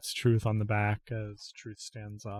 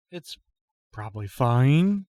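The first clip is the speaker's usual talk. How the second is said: "probably fine" rising like a question; Truth unsure, glancing at Adaliova for approval; 2 semitones higher, slower than usual. Acted. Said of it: "making that into a question".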